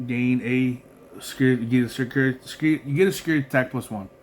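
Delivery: slurred, words running together; slurring. Real, not acted. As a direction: let the words slur into each other. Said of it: "I don't know why I'm slurring".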